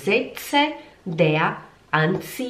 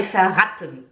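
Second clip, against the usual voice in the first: verraten said fast with short A; too quick. Shown as a demonstration. Teacher shows learners it isn't rápido, hurried verraten. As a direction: rush through verraten. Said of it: "Não é rápido".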